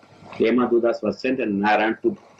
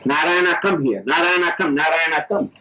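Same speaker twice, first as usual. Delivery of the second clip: calling out; 5 semitones higher than usual. Retold or imitated. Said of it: "He shouted".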